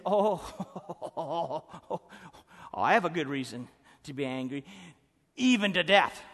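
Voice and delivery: a laugh, then a fast, loud angry insistence; hammed-up stubborn outburst building to a shout; defiant Jonah. Jonah snapping back at God, mock defiant shout.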